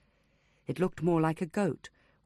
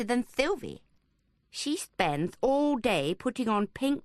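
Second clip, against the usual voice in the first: put-on whiny boy voice; 3 semitones higher than usual. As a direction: grumble like a bored boy. Boy complaining about au pair.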